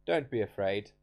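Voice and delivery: lightly voiced Elijah calming the widow; Elijah's voice. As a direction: reassure her, then ask plainly. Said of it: "and he says".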